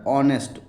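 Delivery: ऑनेस्ट said with an open O, no h sound; silent h pronunciation. Shown as a demonstration. Teacher showing students how ऑनेस्ट is pronounced, starting on O. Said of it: "ओ से उच्चारण हो रहा है".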